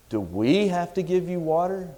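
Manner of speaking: WE pushed up high in the question; stress on WE. Shown as a demonstration. Moses asking the thirsty people, stress on "we". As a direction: lean hard on "we" as you ask. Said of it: "The reason I emphasize the word "we".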